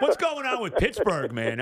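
laughing. Real, not acted. Laughing after hiccup joke.

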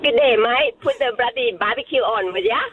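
attempted Aussie accent; Australian accent. Shown as a demonstration. Thai caller trying an Australian accent for radio hosts, Australian accent. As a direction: put on a broad Australian accent. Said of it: "let's hear your Australian accent".

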